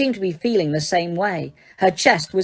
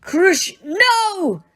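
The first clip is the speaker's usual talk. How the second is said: cracked shout; 12 semitones higher than usual. A narrator's reading. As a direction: scream to stop the curse. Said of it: "shouted Hermione in a cracked voice".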